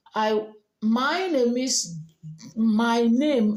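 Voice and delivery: Nigerian accent, slow and deliberate; typical Nigerian accent. Shown as a demonstration. Diction teacher demonstrating to learners, typical Nigerian accent. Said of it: "like a typical Nigerian".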